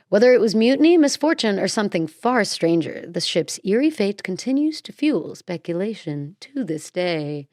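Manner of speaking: rising on the first items, then easing down; mystery narration. Acted. Host closing the mystery for listeners, eerie narration. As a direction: build the list, then settle the ending. Reads the episode script.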